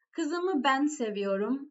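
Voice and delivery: "ben" given the main weight in "Kızımı ben seviyorum"; emphasis on "ben", just before the verb; stress on ben. Shown as a demonstration. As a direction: lean on the middle word "ben". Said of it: "emphasized word is ben".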